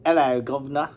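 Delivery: a quick hammed-up Cockney hello; mock Cockney. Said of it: "That's Cockney".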